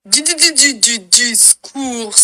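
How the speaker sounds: stuttered jingle, slowing into the name. Shown as a demonstration. Nouvelle proposition de jingle jouée. (jingle bégayé qui ralentit)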